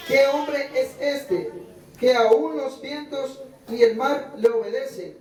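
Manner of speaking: slow, measured Bible reading; scripture reading. Acted. Pastor reading Mateo to his congregation, slow measured reading. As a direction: read the passage aloud to the church, unhurried.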